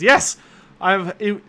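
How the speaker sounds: merry, laughing burst into the yes; mirthful laugh. Acted. Anders laughing merrily as he answers the party. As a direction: let the laugh spill into the words. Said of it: "lets out a mirthful laugh and says".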